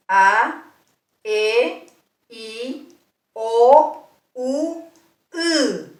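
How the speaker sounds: cada vocal clara y aislada; vocales orales. Shown as a demonstration. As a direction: pronuncia las vocales orales despacio. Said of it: "Las vocales son". (vocales orales pronunciadas una por una)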